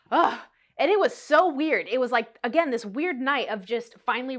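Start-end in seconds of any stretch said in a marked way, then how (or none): 0.1-0.4 short real "ugh"; emotional groan. Real, not acted. Vlogger breaks off her emotional story with a groan. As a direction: let out an overwhelmed groan. Overwhelmed after emotional confession.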